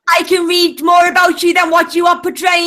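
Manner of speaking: angry. Real, not acted. Angry partner scolding on stream.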